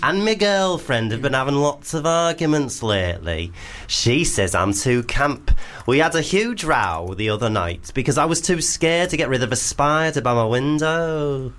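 hammed-up camp northern Leeds lilt; camp Leeds accent. Host rereads Tim's spider dilemma, camp Leeds accent. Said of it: "start again and make it more camp".

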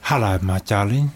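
low, husky chat-up voice; husky suitor. Acted. Suitor to his date at a bar, husky. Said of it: "Very husky voice you've got there".

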